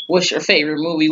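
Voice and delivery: a fast, lightly voiced Scream killer on the phone; just hint at the creepy caller voice; scary movie voice. Stranger calls the officer, in a lightly voiced Scream caller voice. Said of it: "weird scream scary movie voices".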